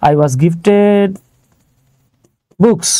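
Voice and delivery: very slow, word by word as if writing it down; slow dictation. Shown as a demonstration. Teacher dictating to students as he writes, very slowly. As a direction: drag out I was gifted while writing it on the board. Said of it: "যেটা আছে ওইটার আমরা লিখে ফেলবো".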